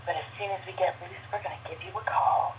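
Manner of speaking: lightly suggestive phone greeting; soft-edged mom innuendo; sultry answering machine. Acted. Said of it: "our answering machine was".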